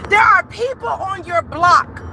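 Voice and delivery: preacher calling out her viewers; preaching. Real, not acted. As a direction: preach with conviction. Preaching by the Holy Ghost.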